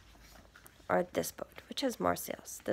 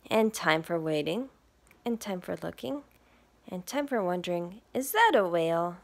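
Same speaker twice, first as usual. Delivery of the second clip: lively picture-book read; reading to children; 4 dB louder than usual. Acted. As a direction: read it to little listeners. Reads picture book aloud.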